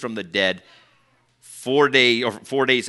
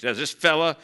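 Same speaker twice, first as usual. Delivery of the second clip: scornful, looking down on him; a touch of contempt for this fella; sneering dismissal; 3 semitones higher than usual. Retold or imitated. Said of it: "So they're degrading Jesus".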